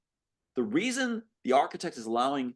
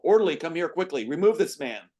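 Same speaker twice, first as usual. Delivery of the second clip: higher and louder, calling for help; calling down the hall; 5 semitones higher, 5 dB louder than usual. Acted. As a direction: summon the orderly from down the hall. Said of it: "Nurse calling down the hall".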